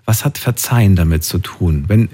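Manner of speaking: ordinary delivery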